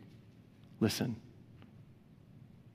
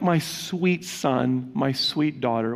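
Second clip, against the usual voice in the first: tender endearment; slower than usual. Shown as a demonstration. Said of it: "It's a term of endearment".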